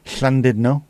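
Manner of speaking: "Llandudno" with a hissed Welsh Ll. Shown as a demonstration. Streamer showing chat how Llandudno is said, Welsh Ll. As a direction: say "Llandudno" opening on the breathy Welsh Ll. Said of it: "How would you pronounce it".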